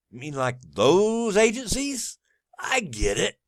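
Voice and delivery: high, incredulous sneer; sarcastic question to the government; mocking disbelief. Real, not acted. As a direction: raise the pitch in mock surprise.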